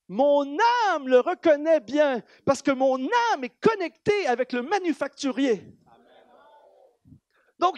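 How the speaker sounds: emphatic preacher's declaration with stretched key words; impassioned preaching. Real, not acted. Preacher declaring he needs no likes for identity, impassioned. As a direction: drive each point home with conviction.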